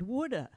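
"woulda" run together as one word; "woulda" as one slurred word. Shown as a demonstration. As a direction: say "woulda" blended, wood-uh. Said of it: "the computer read underlined".

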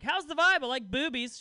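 high, loud, blurting dude voice; awkward date guy. Acted. Guy on a first date blurting, high loud dude voice. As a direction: blurt it out like a nervous bro.

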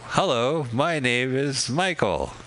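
lightly mocking foreigners speaking carefully; mock textbook phrase. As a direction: recite it like a beginner's language tape. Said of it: "they're just basically talking like".

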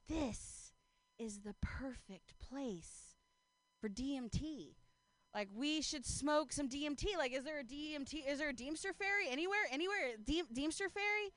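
dreamy, spaced-out hippie voice; tripping friend. Retold or imitated. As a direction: drift off like a stoned hippie. Imitating tripping friend Spirit.

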